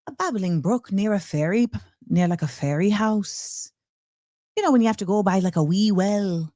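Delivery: put-on playful, light stab at an Irish accent; attempted Irish accent. Host describing the new Irish president's voice, attempted Irish accent. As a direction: try on a lilting Irish accent. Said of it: "trying to do an Irish accent".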